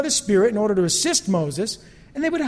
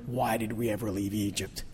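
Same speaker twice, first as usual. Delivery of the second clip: mock whine; 10 semitones lower, 10 dB quieter than usual. Mocking the Israelites' whine.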